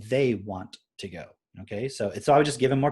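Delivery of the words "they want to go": very slow, carefully spelled-out "He wants to go"; slow teaching demo; model sentence. Shown as a demonstration. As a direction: teach it word by word.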